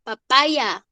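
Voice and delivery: PAPAYA said "pa-PAI-ya"; papaya with y-glide. Shown as a demonstration. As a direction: PAPAYA with an English-style "eye" in the middle. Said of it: "sino papaya".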